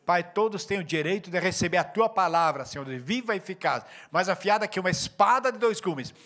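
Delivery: praying aloud over the church; fervent prayer. Acted. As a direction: pray it with conviction, then settle into amen. Closing prayer over congregation.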